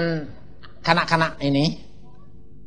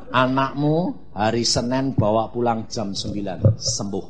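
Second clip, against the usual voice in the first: God's promise, softer; 4 semitones lower than usual. Retold or imitated. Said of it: "Terus Tuhan bilang".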